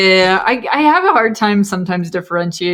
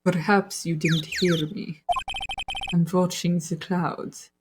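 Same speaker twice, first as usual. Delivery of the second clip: German accent attempt; 10 dB quieter, slower than usual. Mafia woman tells visitor she's watching clouds, quiet German accent. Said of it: "Okay, that's German".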